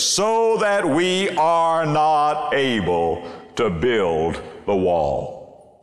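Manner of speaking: discouraged. Acted. Preacher voices the discouraged of Judah.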